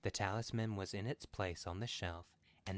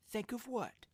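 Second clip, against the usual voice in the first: puzzled. A narrator's reading. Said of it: "he questioned".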